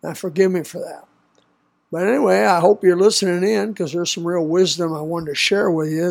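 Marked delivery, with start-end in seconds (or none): 0.0-1.0 talking through a head cold; weak, congested voice from a cold; stuffy nose. Real, not acted. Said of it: "Excuse my cold".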